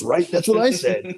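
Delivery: high, loud, drawn-out retold agreement; emphatic agreement. Platoon sergeant agreeing with his First Sergeant, high emphatic mock voice.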